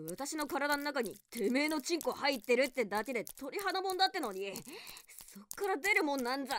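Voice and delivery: fast angry rant. Acted. Defiant woman rants at captor.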